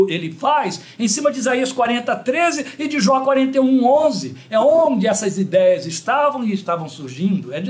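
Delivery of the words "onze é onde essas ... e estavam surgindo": ordinary talk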